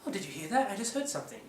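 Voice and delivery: high startled reaction; high puppet surprise. Shown as a demonstration. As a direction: jump at a sudden noise. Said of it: "you go".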